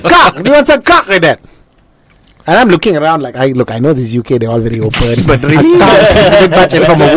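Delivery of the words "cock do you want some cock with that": high-pitched Newcastle server repeating herself; Newcastle accent. Retold or imitated. Counter lady repeating to a baffled customer, Newcastle accent. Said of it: "The best is still Newcastle".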